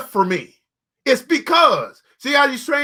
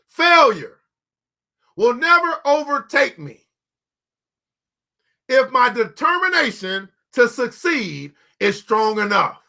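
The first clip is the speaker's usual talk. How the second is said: slow, deliberate recital of the motto; slower than usual. Shown as a demonstration. Preacher reciting his daily motto, slow and firm. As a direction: recite it like a vow. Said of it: "I had to keep repeating".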